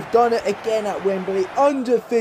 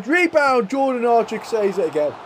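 sudden high yelp of a commentator; frantic rebound call; excited commentary; 5 semitones higher than usual. Real, not acted. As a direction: jump up on the word as the ball comes back. Goal-mouth scramble in live commentary.

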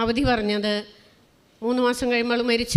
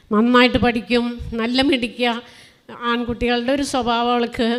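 louder proud exclaim; proud burst; 5 dB louder than usual. Real, not acted. Mother telling the congregation her daughter studies well, proud loud burst. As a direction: boast about her with sudden pride.

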